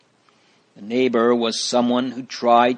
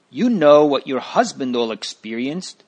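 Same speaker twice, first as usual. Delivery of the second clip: mild louder scold; a touch of a scolding neighbor; 3 semitones higher, 5 dB louder than usual. Acted. Neighbor scolding Christiana about her husband's troubles, mild scold. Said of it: "she scolded".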